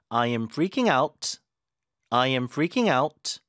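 slow drill, "out" pressed and "freaking" prominent; teacher drills "freaking out" twice with stress. Shown as a demonstration. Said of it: "강세는 ... 부사인 out에 줍니다".

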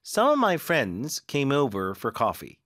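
very slow, every word clear; slow model sentence. Shown as a demonstration. Teacher modelling a coffee sentence, slow. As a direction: read it slowly for copying. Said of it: "커피를 넣어볼까요?".

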